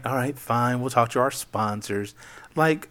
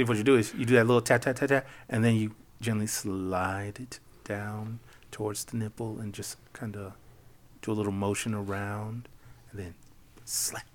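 sultry narrator; 3 semitones lower, 10 dB quieter than usual. Acted. Sensually describing paddle technique.

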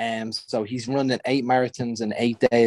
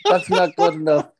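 higher, whiny mock moan; moaning complaint; 4 semitones higher than usual. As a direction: whinge like a grumpy coach. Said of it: "he'd probably be moaning about".

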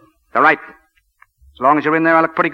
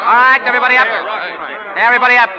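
calling out; 7 semitones higher, faster than usual. Acted. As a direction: rouse the team off the ground. Coach calling players to stand.

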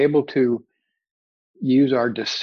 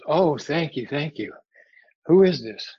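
acted relief; 3 semitones higher than usual. Acted grateful man hanging from cliff.

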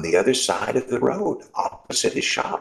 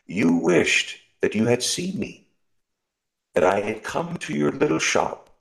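mysterious voice. Acted. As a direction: promise it kindly, a little above him. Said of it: "said the voice again".

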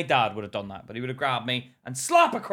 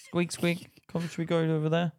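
higher, lightly voiced mouse chatter; squeaking mouse; 4 semitones higher than usual. One mouse suggesting a route to another, lightly squeaky. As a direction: play a little mouse, slightly squeaky. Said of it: "how do animals talk to each other".

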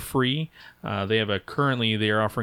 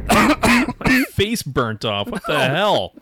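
pained shout; 9 semitones higher, 7 dB louder, much slower than usual. Acted. Mock phone explosion aftermath.

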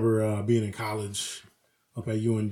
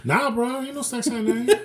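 high, laughing protest; a chuckling denial; 10 semitones higher than usual. Real, not acted. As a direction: brush it off while cracking up.

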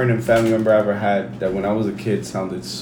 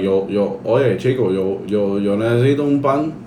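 Cuban accent; 5 semitones lower than usual. Shown as a demonstration. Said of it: "that's Cuban".

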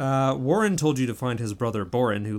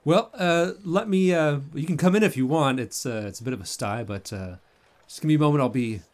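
flustered host; 3 semitones higher, 4 dB louder than usual. Acted. GM voices Boren, flustered host.

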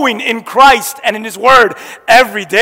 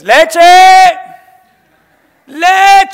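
put-on rising whiny child calls, louder each time; daughter demanding milk; 6 semitones higher, 6 dB louder, much slower than usual. Little daughter on the couch yelling for milk, building whine. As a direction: call for milk like an impatient little girl. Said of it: "And she says".

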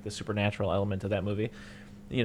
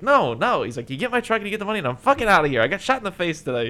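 higher, louder, fast angry rant; mock furious rant; 9 semitones higher, 6 dB louder than usual. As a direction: spit it out, done with everyone.

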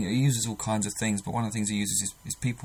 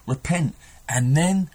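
slow, louder call to action; urgent exhortation; 5 dB louder, slower than usual. Acted. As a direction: drive it home, word by word.

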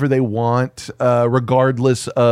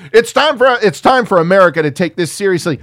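mock politician speech; 6 semitones higher, 5 dB louder, faster than usual.

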